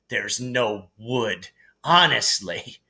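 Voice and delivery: lightly imitating Hermione; mocking Hermione. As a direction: mimic her panic mockingly. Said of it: "lucky Harry doesn't lose his head".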